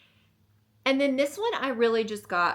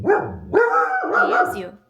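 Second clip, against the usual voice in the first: high cooing voice; 12 dB louder, much slower than usual. Pretend. Talking to dog about Dopey.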